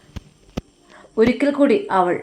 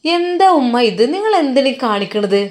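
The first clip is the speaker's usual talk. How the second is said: higher, louder irritated outburst; angry retort; 4 semitones higher, 4 dB louder than usual. Acted. Daughter angrily snapping at her mother over tea. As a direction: lash out, fed up with being disturbed.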